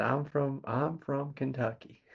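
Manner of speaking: a little bit of a Southern US accent on I'm from Kentucky; southern drawl. Shown as a demonstration. Telling a family newcomer her home, with a light Southern drawl. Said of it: "a little bit of that southern drawl".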